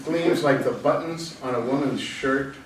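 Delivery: measured verse with a pause after each image; poem read aloud, settling at the end; poetry reading. Acted. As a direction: recite it line by line, letting each phrase stand. Reads poem Hot Springs.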